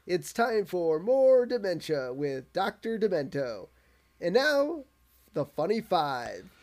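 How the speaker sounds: slow, showy DJ intro; radio announcer. Retold or imitated. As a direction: announce it like a wacky radio host. Radio announcer voiced in recap.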